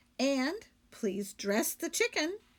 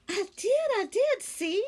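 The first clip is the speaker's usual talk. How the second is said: higher, louder innocent maid; Amelia Bedelia; 11 semitones higher, 5 dB louder than usual. Acted. Maid explaining the lights to her employer, higher and innocent. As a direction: explain it brightly and sure of herself.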